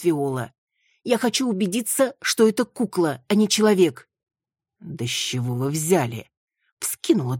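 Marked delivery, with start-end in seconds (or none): 1.0-4.1 higher, rising louder; insistent Маруся. Acted. Маруся insisting to Виола, higher and building. 4.8-6.3 whispered, mocking; whispered scoff. Виола scoffing at Маруся in a whisper.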